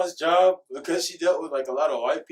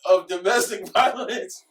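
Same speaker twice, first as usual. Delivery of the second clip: high, loud laughing accusation; laughing disbelief; 8 semitones higher, 5 dB louder than usual. Real, not acted. Friend calls out his flirting trick, laughing in disbelief. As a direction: call him out while cracking up.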